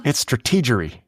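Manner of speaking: lightly drawled Texan; deadpan Texas accent. Pretend. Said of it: "Got your Texas accent down".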